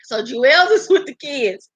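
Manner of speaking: slow, slurred impression of a man with bad teeth; Jewels. Host mocking a castmate for viewers, slurred impression. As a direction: imitate his mushy, drawn-out speech. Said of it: "I gotta do my Jewels voice".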